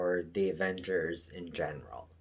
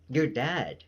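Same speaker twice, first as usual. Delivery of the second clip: higher and louder, insistent; frantic Agnes; 6 semitones higher, 7 dB louder than usual. Retold or imitated. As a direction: press it on him, rising. Agnes repeating you're dead.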